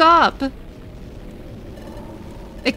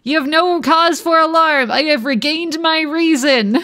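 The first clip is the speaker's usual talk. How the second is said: mock yelling. Shown as a demonstration. Streamer redoes the boss line as a shout. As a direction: read it as if yelling in all caps. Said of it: "I have to do this as if I'm yelling".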